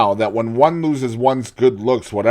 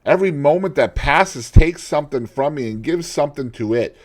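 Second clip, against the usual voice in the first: despairing outburst; 6 semitones higher, 7 dB louder than usual. Acted. Dorian's despair.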